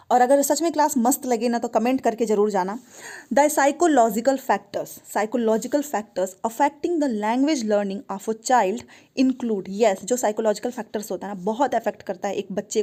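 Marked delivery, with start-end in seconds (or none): 3.3-9.7 reading the question out very slowly, word by word. Acted. Teacher reading an exam question to students, slow and deliberate. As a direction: dictate it slowly to the class.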